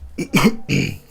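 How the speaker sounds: real choking cough; coughing fit on water. Real, not acted. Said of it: "Desculpa, eu engasguei com água".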